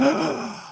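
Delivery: sharp, high imitated gasp of a shocked crowd. Retelling how the room reacted to the news of the body, sharp gasp. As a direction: gasp like the whole room hearing bad news. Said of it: "And the place went".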